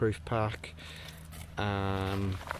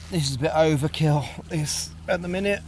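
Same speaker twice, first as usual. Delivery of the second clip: yelling over helicopter; 4 semitones higher, 7 dB louder than usual. Real, not acted. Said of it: "sorry about the helicopter noise".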